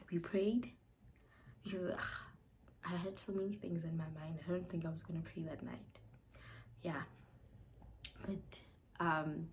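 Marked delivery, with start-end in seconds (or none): 2.8-6.0 soft, half-whispered confession; hushed. Real, not acted. Bride confiding her doubts about praying, in a whisper. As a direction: hush it like a secret.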